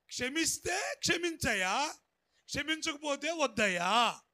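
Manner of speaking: rising to a loud call; forceful preaching. Real, not acted. Preacher calling out to the congregation, loud. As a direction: proclaim it to the church. Preacher shouting prayer line.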